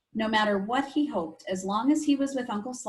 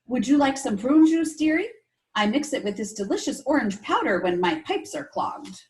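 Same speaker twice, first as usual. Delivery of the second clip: put-on Polish accent; 3 semitones higher, 4 dB louder than usual. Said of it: "in her thick Polish accent".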